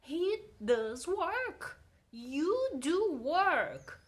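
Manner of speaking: slow, insistent weight on "does" and "do"; stress on DOES and DO. Shown as a demonstration. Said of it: "faz essa entonação na voz".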